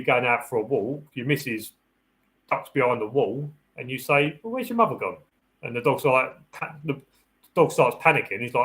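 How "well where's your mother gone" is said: high, excitable talk to a dog; playful dog-owner question. Acted. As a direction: get the dog wondering, pitched way up.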